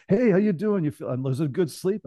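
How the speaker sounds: high, upbeat greeting; lightly imitated chipper bedside hello; bouncy doctor. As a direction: bounce in like an energetic frat-guy doctor. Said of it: "He's bouncing it".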